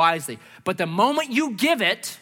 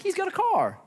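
shocked; 12 semitones higher than usual. Retold or imitated. Shocked to see the car.

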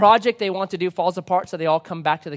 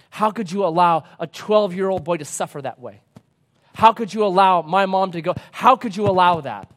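building, louder reproach; accusing plea; 4 dB louder than usual. Acted. Earth dweller blames God for suffering, accusing. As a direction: demand an answer from God, building.

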